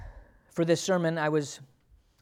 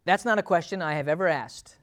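usual speaking voice

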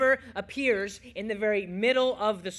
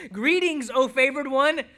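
loud, raised heralding voice; angelic proclamation; 4 semitones higher, 7 dB louder than usual. Acted. Angel greets Mary, loud proclamation.

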